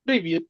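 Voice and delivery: প্রিভিয়েত said lightly and softly, like greeting a friend; informal Russian hi. Shown as a demonstration. Teacher shows the friendly greeting for a friend. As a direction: toss off প্রিভিয়েত casually. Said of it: "বলতে পারেন কি প্রিভিয়েত".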